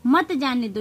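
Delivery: मत leads straight into जाने दो; मत joined to जाने दो. Shown as a demonstration. Teacher explaining an order to stop someone, मत grouped with जाने दो. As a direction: run मत जाने दो together as one command. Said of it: "अगर हम एक विराम यहाँ लगाते हैं".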